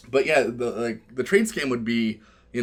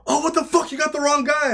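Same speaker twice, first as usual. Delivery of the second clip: high-pitched indignant protest; hammed-up wrongly-accused outcry; mock outrage; 4 dB louder than usual. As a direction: imitate a jailed player squealing innocence. Jailed player protesting.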